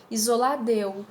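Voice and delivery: "isolada eu" contracted to "isolad'eu"; elision. Shown as a demonstration. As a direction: drop the final A of "isolada" straight into "eu". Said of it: "tirando esse A". ("isolada eu" com elisão do A)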